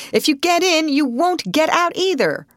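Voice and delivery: high, loud, urgent warning; warning yell. A narrator's reading. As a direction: warn them off forcefully. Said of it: "yelled the man from the steamer".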